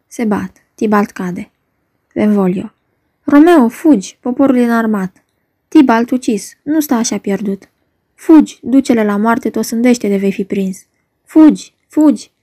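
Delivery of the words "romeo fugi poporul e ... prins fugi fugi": urgent warning. Acted. Benvolio urging his friend Romeo to flee, urgent warning. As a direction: press him hard to get away.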